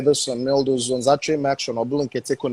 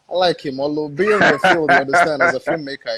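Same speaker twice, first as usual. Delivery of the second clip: laughing through the words; chuckling while talking; 5 dB louder than usual. Real, not acted.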